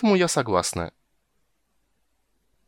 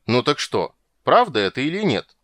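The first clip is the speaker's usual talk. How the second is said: stern demand, rising louder; 3 semitones higher, 5 dB louder than usual. Acted. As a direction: press her for the truth. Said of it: "сурово закончил король".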